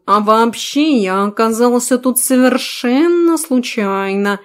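slow, self-satisfied talking cat; smug cat voice. Acted. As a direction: drawl like a smug lazy cat. Cat character's long monologue. (самодовольный кот, медленно)

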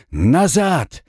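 sharp warning shout; urgent shout. Acted. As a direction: yell to push them back. Warning comrades before blast. (резкий крик-предупреждение)

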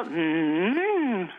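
long swooping "mmm"; hammed-up presenter hum; imitated exaggerated hum. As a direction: hum a long, swelling mm in mimicry. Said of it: "nästan så att det var".

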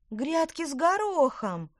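high, loud, drawn-out realisation; alarmed exclamation. A narrator's reading. Witch realises her mistake, alarmed exclamation. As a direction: exclaim as it suddenly dawns. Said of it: "воскликнула Петронелла".

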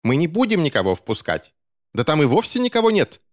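high-pitched scandalised retort; shrieking. A narrator's reading. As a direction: shriek it in outrage. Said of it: "визжала миссис Поуп".

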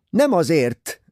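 loud, high retort; snapping back. Acted. Cornelia snaps back at Ferguson. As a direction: cut him off sharply. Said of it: "vágott vissza Cornélia".

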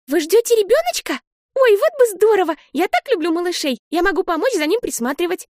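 put-on high, bright little-girl voice, excited; a small girl bubbling over with hope; little girl gushing about a baby, high and excited; eager little sister.

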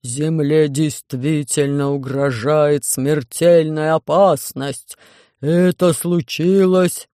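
громкий медленный бас инопланетянина; настойчиво, вдалбливая каждое слово; напористый Громозека. Acted. Громозека убеждает диспетчера. (Громозека убеждает диспетчера, громко и медленно)

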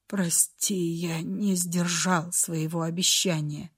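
тихо, ниже, угасая; говори на последнем дыхании; слабый голос умирающего. A narrator's reading. Умирающий Ренулф прощается. (умирающий Ренулф извиняется перед Фреей: тихо, слабо)

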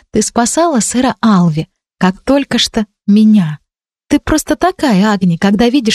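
put-on a young girl praising her friend; light girl voice. Ранди хвалит Агни. (Ранди выше, ласково, в конце медленно)

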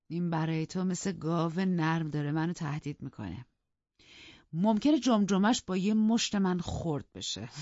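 scornful taunt, slowing on the threat; mocking. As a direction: sneer at a feeble rival. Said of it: "با تمسخر سراپای آقای لینتون را ورانداز کرد".

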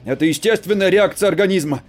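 shouted loud with stress on реакция. Acted. Husband shouting at wife, loud. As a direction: yell it. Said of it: "перешёл на крик".

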